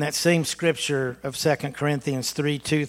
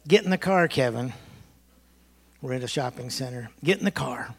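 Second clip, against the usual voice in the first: put-on mom's Massachusetts accent; 2 semitones lower than usual. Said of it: "when she started talking funny".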